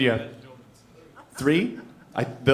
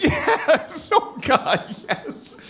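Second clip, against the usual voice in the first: high, strained cry of pain; mock agony; 13 semitones higher, much slower than usual. Man with kidney stones answers partner, mock agony. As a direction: act out writhing in pain as you answer.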